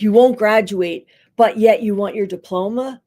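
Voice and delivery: a judging counselor pressing the point; belittling tone. Shown as a demonstration. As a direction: push the contrast so it sounds like "are you crazy". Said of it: "that sounds like, "What, are you crazy?".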